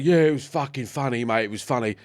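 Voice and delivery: lightly imitated Cockney accent; a hint of matey Cockney bodyguard. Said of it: "big Cockney bodyguard".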